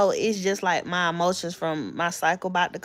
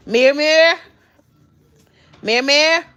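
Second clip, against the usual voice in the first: singsong call; 7 semitones higher, 8 dB louder than usual. Real, not acted. Singsong to toddler.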